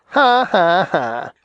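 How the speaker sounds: acted "ha, ha, ha", starting high; storybook skunk's descending laugh. A narrator's reading. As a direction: read out a mocking laugh, falling away. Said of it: "laughed Jimmy Skunk".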